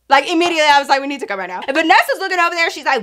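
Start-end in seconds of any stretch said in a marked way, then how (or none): 1.0-1.6 low and hushed, urgent. Retold or imitated. To her friend, hushed urgent murmur. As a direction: murmur it so nobody else hears.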